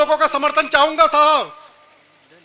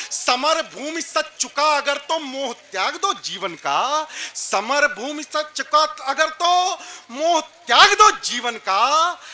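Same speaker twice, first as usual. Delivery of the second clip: poetry recitation; slower than usual. Acted. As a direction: recite with stately, stretched phrase endings. Recites verse on stage. (ठहराव के साथ वीर रस काव्य पाठ)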